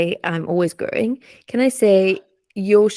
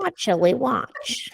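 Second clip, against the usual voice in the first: slow breathy alien whisper; 4 semitones higher, 5 dB quieter, much slower than usual. Pretend. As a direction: play a curious alien, very slow. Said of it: "Do an alien voice".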